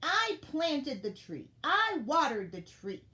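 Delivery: high, loud, emphatic outburst; indignant shouting. A narrator's reading. Elf telling off lazy friends who never helped, shouting. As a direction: shout each point, building to a furious high finish. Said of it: "put up her hands and shouted".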